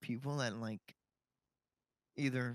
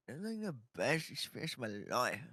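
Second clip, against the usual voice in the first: surfer dude voice. Retold or imitated. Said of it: "you sound like a little surfer dude".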